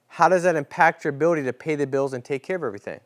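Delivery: sincere agent question. Shown as a demonstration.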